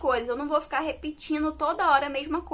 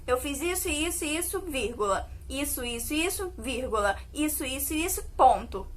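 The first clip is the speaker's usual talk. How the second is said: speaking punctuation aloud; 4 dB quieter than usual. Shown as a demonstration. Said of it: "Eu não falo assim".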